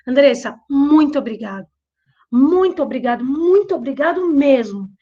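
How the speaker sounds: lightly mimicked gushing thanks, a bit too sweet; a hint of fawning gratitude; overeager thanks. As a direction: play the job seeker laying it on thick. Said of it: "ele era bem apelativo".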